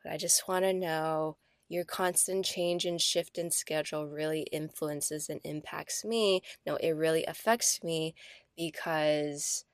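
a hint of gentle, soft-spoken boyfriend; quietly level, sitting her down; soft serious talk. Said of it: "and was like".

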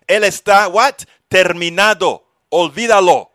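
loud, high mock-dramatic Spanish; playful Spanish exclamation. Real, not acted. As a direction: toss it off with flair.

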